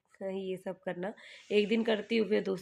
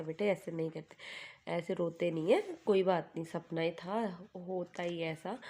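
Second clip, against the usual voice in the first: gentle soothing. Retold or imitated. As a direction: coax him out of tears tenderly. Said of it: "मैंने इसको फिर प्यार से समझाया".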